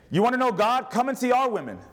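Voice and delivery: high, bright pitch of an eager inviter; playful mock sales pitch; mock invitation. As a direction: sell it like a cheerful greeter. Preacher mock-inviting, congregation laughing.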